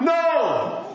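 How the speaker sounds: high, drawn-out "No" called back; mock shout back. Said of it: "They, they shout".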